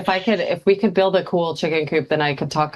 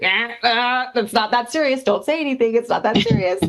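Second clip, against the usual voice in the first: higher, gently dismissive voice; calm advice quote; 7 semitones higher than usual. Retold or imitated. To a commenter online, a mock soothing high voice. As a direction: wave it off lightly, pitched up. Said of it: "I'm like".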